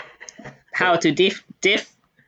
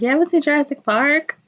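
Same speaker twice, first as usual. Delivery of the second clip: higher-pitched incredulous question; imitated disbelief; 8 semitones higher than usual. Quoting coworkers about the unseen film, higher-pitched imitated disbelief. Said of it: "My coworkers are like".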